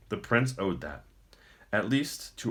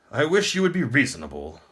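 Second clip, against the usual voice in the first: lamenting; 7 semitones higher, 8 dB louder than usual. Acted. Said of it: "the Emperor lamented".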